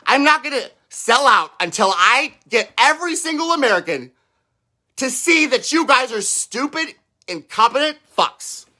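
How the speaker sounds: fired-up ranting, pitch climbing; excited rant. Real, not acted. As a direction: get carried away in the rant. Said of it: "Sorry, I got excited there".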